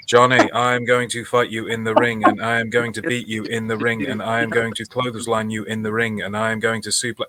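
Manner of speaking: flat, emotionless reading; bad acting. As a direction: read it off a page with no feeling. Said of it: "read it with no emotion".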